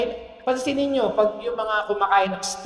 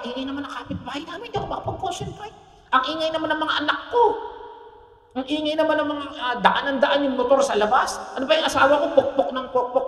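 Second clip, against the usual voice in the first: fast annoyed whining; 5 semitones higher, faster than usual. Retold or imitated. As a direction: complain fast about the noisy neighbors. Mimicking distracted praying complainer. (mabilis at mataas na reklamo sa ingay)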